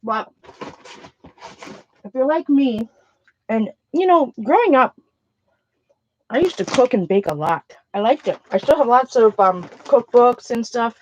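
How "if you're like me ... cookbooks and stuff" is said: talking while chewing; words round a mouthful; mouth full. Real, not acted. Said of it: "I should not be talking with my mouth full".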